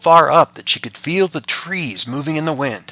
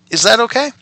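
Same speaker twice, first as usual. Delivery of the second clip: put-on child voice; 11 semitones higher, 6 dB louder than usual. Father voicing child.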